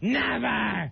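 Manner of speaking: high, defiant outburst. Retelling what their mother screamed in refusal, imitating a defiant scream. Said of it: "refuses to surrender or something".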